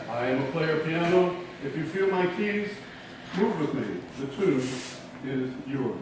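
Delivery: measured recital with pauses between phrases; poem reading. Acted. Poet reading a short gnomic to an audience, poem reading. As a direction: recite line by line, settling on the ending.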